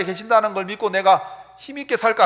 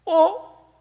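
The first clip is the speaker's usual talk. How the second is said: mock surprise; 9 semitones higher, 3 dB louder, slower than usual.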